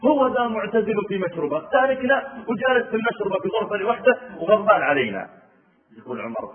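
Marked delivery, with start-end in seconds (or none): 0.0-5.3 crying. Retold or imitated. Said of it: "قالت وهي تبكي".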